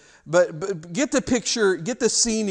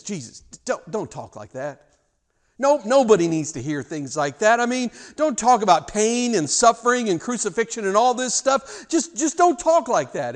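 gentle remonstrance; 5 semitones higher, 6 dB louder than usual. Acted. Peter taking Jesus aside from the group, pleading with rising insistence. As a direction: coax gently, then press louder and higher. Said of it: "puts his arm around Jesus and gently".

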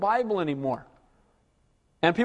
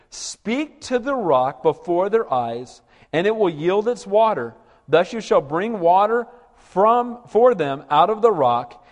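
slow, weighty reading of God's words; solemn scripture reading; slower than usual. Acted. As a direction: read it out with gravity.

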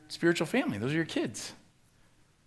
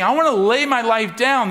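earnest; 8 semitones higher, 11 dB louder than usual. Retold or imitated. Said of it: "is looking at it and saying".

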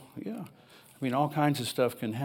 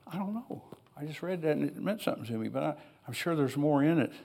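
recalls answering his wife through tears, softly; retold tearful reply; 2 semitones higher, 4 dB quieter than usual. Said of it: "I was just bawling like a baby".

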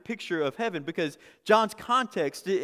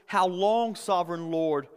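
raised voice, pleading with God; a mild retold cry of the martyrs; loud outcry. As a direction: call it out loud. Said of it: "They called out in a loud voice".

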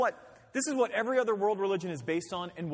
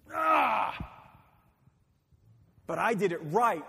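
mock whining cry; 3 semitones higher, 5 dB louder, slower than usual. Preacher imitating a hurt spouse's mock wail. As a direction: whine like you were cheated. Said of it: "and we're like".

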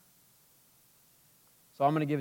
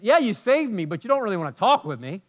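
mock whiny complaint; 7 semitones higher, 6 dB louder than usual. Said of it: "mock complaint voiced to God".

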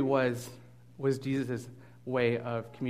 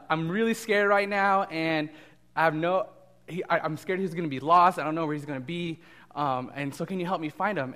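mock scared; 4 semitones higher, 4 dB louder than usual. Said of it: "the man runs up and he goes".

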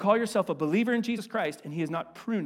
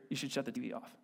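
a gentle nudge spoken quietly, softer; soft voiced whisper; 6 semitones lower, 11 dB quieter, much faster than usual. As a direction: drop to a hushed, much softer line. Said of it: "Jesus is gonna whisper in your ear".

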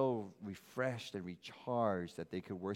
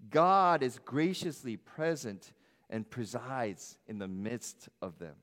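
loud, high, ringing scripture reading; preaching at full force; 4 semitones higher, 6 dB louder than usual. Acted. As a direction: proclaim it to the whole church. Reads a scripture passage aloud.

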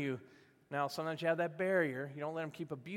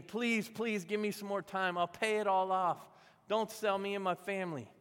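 higher-pitched mock begging; pleading; 4 semitones higher than usual. Servant begging the king for more time, pleading. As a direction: plead earnestly, voice lifted, in a retold quote. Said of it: "the guy started begging the king".

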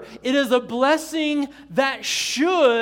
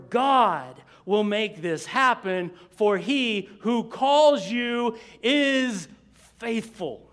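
slow scripture reading; slower than usual. Real, not acted. Preacher reading God's promise to congregation, slow and deliberate. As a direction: read slowly so each word is absorbed. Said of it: "read this kind of slowly".

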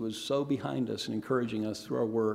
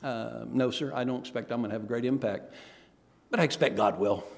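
understated, composed reply; calm; 3 semitones lower than usual. Retold or imitated. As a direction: imitate a mildly calm, unruffled answer. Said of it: "Morrison calmly said".

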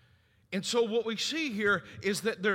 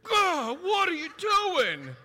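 higher, louder alarmed cry on waking; startled cry; 11 semitones higher, 8 dB louder, slower than usual. Retold or imitated. Father waking to a kid standing by the bed, startled cry. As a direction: jump out of sleep at the figure by the bed. Jolted awake by a child.

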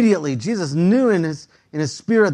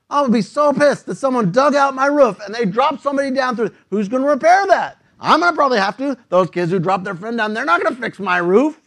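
put-on grumpy old homeowner; 3 semitones higher, 3 dB louder than usual. Old man fuming at the punks who wrecked his roof. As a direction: rant like an angry old neighbour. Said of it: "as an old person".

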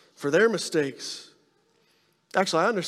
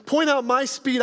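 indignant; 7 semitones higher, slower than usual. Retold or imitated. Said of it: "I was like".

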